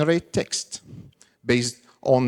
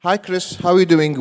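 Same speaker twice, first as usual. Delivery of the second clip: raised voice calling to a device; 4 semitones higher than usual. Real, not acted. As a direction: call out clearly so it hears. Repeats louder so assistant hears.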